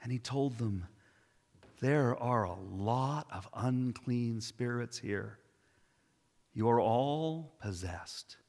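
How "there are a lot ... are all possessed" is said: slow, stern pronouncement; warm but stern. Acted. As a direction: deliver it slowly with stern care. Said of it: "with warm eyes and a stern face".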